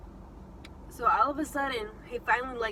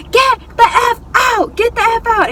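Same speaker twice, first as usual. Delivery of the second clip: high-pitched acted shout; imitated angry order; 10 semitones higher, 14 dB louder than usual. Man throwing passengers out of his car, imitated shouting. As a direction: shout it like kicking someone out, each word punched.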